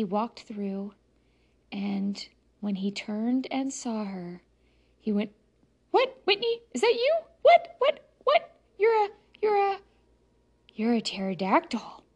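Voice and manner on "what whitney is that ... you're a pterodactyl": high, loud shocked disbelief. Acted. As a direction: stammer out the shock, much higher. Friend sees her as dinosaur.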